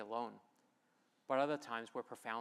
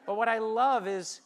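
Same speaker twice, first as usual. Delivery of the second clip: laughing; 10 semitones higher, 14 dB louder, slower than usual. Real, not acted. Laughs while building to point.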